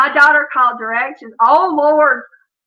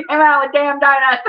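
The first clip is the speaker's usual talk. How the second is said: put-on frustrated child; 4 dB louder than usual. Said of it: "he was very frustrated".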